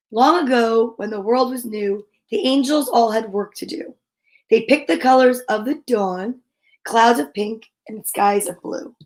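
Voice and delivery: gentle picture-book read-aloud; storybook reading. Acted. Reading a picture book about angels to listeners, gentle.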